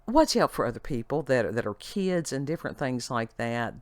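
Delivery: ordinary delivery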